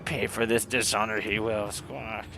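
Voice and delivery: a hint of an offended bird warrior; indignant bird-man. Ixal reacts to abductions.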